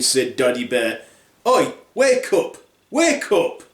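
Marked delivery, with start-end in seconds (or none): 1.5-3.6 slow, high-pitched call; calling to wake. Acted. Bear waking the sleeping intruder, insistent. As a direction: rouse a sleeper with drawn-out words.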